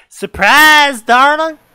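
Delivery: loud cheerful surprise shout; excited shout. Acted. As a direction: shout it like happy parents. Parents shout surprise in story.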